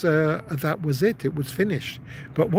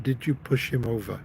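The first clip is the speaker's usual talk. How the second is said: aggressive; 2 semitones lower, 4 dB quieter than usual. Retold or imitated. Father looked at his son, understated aggressive voice. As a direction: imitate a father's restrained menace. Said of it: "It's a very aggressive voice".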